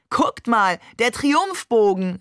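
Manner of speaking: calling out in delight at the sight; excited call. Acted. Babe points out the Triumphbogen from the car, excited call. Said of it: "rief Babe".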